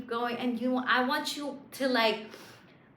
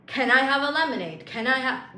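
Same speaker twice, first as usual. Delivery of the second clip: insistent nagging; 4 semitones higher, 6 dB louder than usual. Retold or imitated. Nagging customer, louder.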